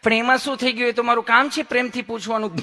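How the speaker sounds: a lightly voiced, lovingly polite nurse; mild honeyed nurse voice; sweet nurse. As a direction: ask like a nurse who is all sweetness. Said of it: "તમે કેટલું પ્રેમથી પૂછો છો".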